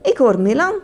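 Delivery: put-on high, lightly excited child's exclamation; mild storybook joy; happy call. A narrator's reading. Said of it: "riep Sita blij".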